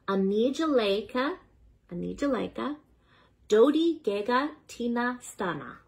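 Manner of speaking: Anijaleka as "uh-nee-juh-LAY-kuh", voice rising; careful sounding-out. Shown as a demonstration. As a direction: read Anijaleka, Dodi Gega Tina Stana piece by piece from a guide. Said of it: "consult my pronunciation guide".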